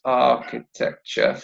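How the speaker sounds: "Architecture" slowly split into four syllables; "Architecture" measured out, rising at the end. Shown as a demonstration. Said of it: "how many syllables?".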